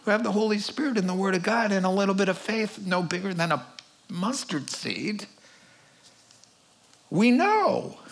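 confident declaration. Retold or imitated. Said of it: "He says".

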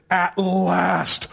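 exultant mock shout, drawn out; exclaiming. Preacher acting out Adam's reaction to Eve, exclaiming. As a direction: shout it like long-awaited joy. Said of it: "That's what he did".

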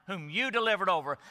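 "you" stressed above the other words. Shown as a demonstration. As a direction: lean on the word "you". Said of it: "He is emphasizing it".

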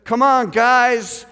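loud, high, drawn-out call to the team; rally the players, slow and loud; imitated coach's rallying call. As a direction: coach calling out his catchphrase. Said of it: "And he would say this".

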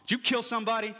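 mom's question flung out high and loud; hammed-up exasperated mother; mom blurting it out. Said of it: "she's like".

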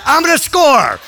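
high, loud determined yell; excited boy. Retold or imitated. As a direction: shout it as the eager young runner. Boy decides to run home.

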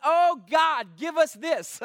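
mock fervent plea, pushed up in volume; congregation's shout. Preacher imitating the church's reaction to scripture, mock shout. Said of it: "everybody shouts and says".

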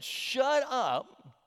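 mild excited squeal. Retold or imitated. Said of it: "when Kennedy said".

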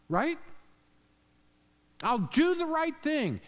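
high, pleading slave begging the king, pitch way up; begging servant. Acted. Preacher voicing the servant begging the king, high and desperate. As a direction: beg for your life, voice climbing high.

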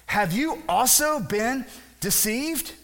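slow, high-pitched accusing question; incredulous challenge. Acted. Pharisees answer the guards, incredulous.

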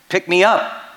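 high, loud call from nowhere; a high little voice calling out of nowhere; a squeaky unseen voice calling up; mystery voice. Acted. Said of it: "he heard this voice and said".

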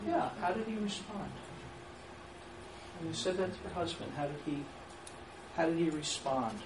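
calm, open question; open question demo. Shown as a demonstration. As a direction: ask it simply and leave room to answer. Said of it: "What would be a better way to say that?".

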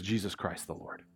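Jesus Christ the Lord, dropped to a near hush; preacher voicing Paul's quiet answer, hushed. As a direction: let the name fall quietly. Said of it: "And he says".

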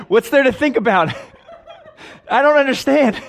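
high laughing disbelief. Real, not acted. Preacher laughing at his own outburst, high and loud. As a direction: laugh through the words, still worked up.

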